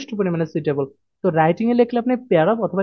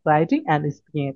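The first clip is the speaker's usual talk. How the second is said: very slow answer; 5 semitones lower, much slower than usual. Shown as a demonstration. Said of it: "apply করবেন কোথায়?".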